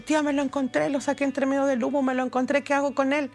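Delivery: retelling someone asking urgently for help; urgent retold plea. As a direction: act out an urgent appeal to an aunt. Retelling boy's urgent plea amid tear gas.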